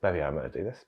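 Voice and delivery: breathless whispered realization; awed whisper. Retold or imitated. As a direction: whisper it in quiet awe. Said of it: "sitting in the grass going".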